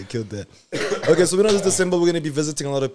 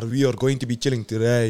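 put-on German accent. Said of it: "we actually killed the German accent".

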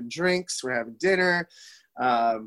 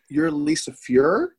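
stunned question; much slower than usual. Retold or imitated. Realizing who she is.

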